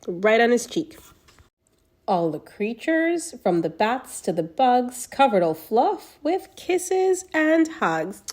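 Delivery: put-on reading to children. A narrator's reading. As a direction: read it like a bedtime picture book to a little one. Reads a picture book aloud.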